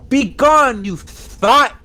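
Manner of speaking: loud hammy banishing cry; mock exorcism shout. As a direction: cast it out like a priest. Banishing the skeleton in jest.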